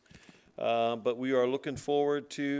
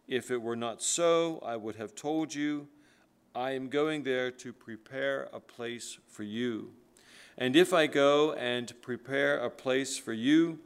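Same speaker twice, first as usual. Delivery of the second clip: scripture reading. Acted. Pastor reading John to his congregation, solemn scripture reading. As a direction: read the verses like they carry weight.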